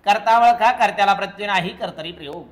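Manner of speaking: rattled-off rule, loud at the start, dropping away; quick rule drill. Shown as a demonstration. Teacher drilling the class on the rule, quick recital. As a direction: fire off the rule briskly, tailing down.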